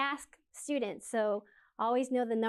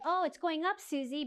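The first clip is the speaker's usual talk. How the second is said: imitating a student; 5 semitones higher than usual. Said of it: "I know you think".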